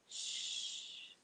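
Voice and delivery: soft unvoiced shush. Real, not acted. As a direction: hush the room gently. Hushing while parrot settles.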